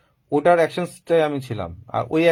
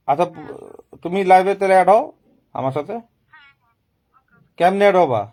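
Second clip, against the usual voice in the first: on the phone, loud; 3 semitones higher, 4 dB louder than usual. Real, not acted. Speaking on phone to caller.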